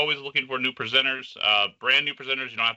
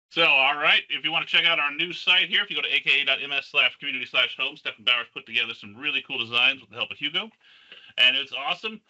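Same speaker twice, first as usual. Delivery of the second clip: muffled, far-off sound; inside a barrel. Real, not acted. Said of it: "You sound a little far away".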